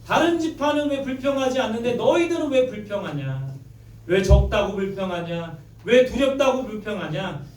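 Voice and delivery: a mild imitated telling-off of grumbling tribes; mock scolding. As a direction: scold them lightly, as Joshua might have. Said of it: "야단쳤을 거예요". (가볍게 흉내 낸 꾸짖음)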